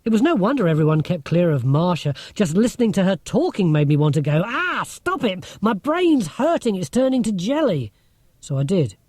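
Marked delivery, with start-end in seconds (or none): 4.4-7.9 1 mock exasperated groan. Rob imagines groaning at Marcia.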